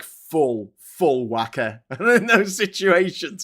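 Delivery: loud, exaggerated Scouse with a laugh; full-whack Scouse. Shown as a demonstration. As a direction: turn the Scouse right up, drawn out. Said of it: "I go, like".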